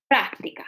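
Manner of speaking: práctica accented on the first syllable; stress on PRÁC. Shown as a demonstration. Teacher confirming where the force goes, stress on PRÁC. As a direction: say PRÁC-ti-ca with a firm front syllable. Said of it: "la mayor, ah, fuerza".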